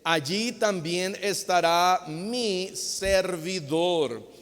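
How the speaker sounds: slow, measured Bible reading; scripture reading. Acted. Preacher reads Jesus' words to the congregation, slow solemn reading. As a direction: read the verse slowly, phrase by phrase.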